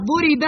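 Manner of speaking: ضرب said as "duriba"; u then i in ضرب, passive form; passive vowelling. Shown as a demonstration. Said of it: "إذا تغيرت صيغة الفعل".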